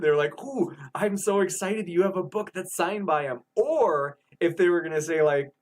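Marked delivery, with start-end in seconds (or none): 0.4-3.4 mildly gushing, slightly raised pitch; a touch of eager excitement; excited fan. Acted. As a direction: act out an excited fan, lightly. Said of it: "like, excited".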